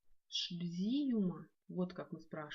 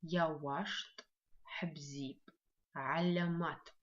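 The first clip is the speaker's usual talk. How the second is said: Свысква бзип drawn out very slowly; slow choral lead; very slow model word; much slower than usual. Shown as a demonstration. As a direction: crawl through Свысква бзип for the class. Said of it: "прочитаем все вместе".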